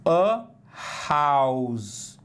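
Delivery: "house" said with a breathy aspirated H at the start. Shown as a demonstration. Teacher to class, modelling the English word "house" with an aspirated H. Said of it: "Esse som aqui do H é o som aspirado".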